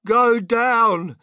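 loud, high-pitched demand; yelled order. A narrator's reading. Grandfather demanding descent from the inventor, loud high yell. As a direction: holler it over the wind. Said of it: "yelled Grandpa George".

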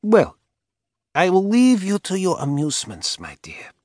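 put-on high, loud old woman voice; sweetly dismissive old lady. A narrator's reading. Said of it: "the old woman said".

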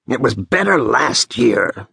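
mildly cross grumble; understated irritation; angry. A narrator's reading. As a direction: grumble with a touch of anger. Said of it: "says Seryoshka angrily".

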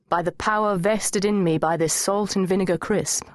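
measured ceremonial pronouncement; mock solemn. A narrator's reading. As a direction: intone it like someone officiating a ceremony. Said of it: "in my best solemn voice".

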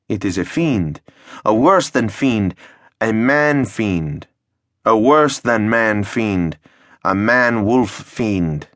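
slow, weighty piling up of words; slow down on each fiend; slow escalating dread. Acted. Mayor builds escalating list.

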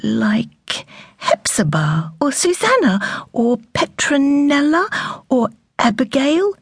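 slow, half-whispered musing over names; mother thinks aloud, slow and whispery; thoughtful. Acted. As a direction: weigh each name slowly. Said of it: "said Cathy thoughtfully".

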